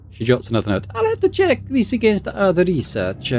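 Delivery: high, confident expert voice; lecturing scholar. Acted. Scholar explains her findings to the player, high and confident. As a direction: lay out the diagnosis proudly. Belasag voice.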